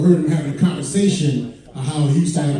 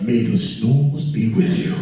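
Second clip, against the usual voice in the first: lightly lowered slow Vader voice; mock Vader pun; Darth Vader; 6 semitones lower, slower than usual. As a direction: rumble it like a sleepy Vader. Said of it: "breathing like Darth Vader".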